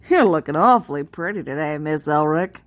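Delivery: low, put-on Southern country-boy voice; thick Southern twang. Country boy teasing her with silly compliments, thick fake Southern twang. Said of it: "this thick Southern twang".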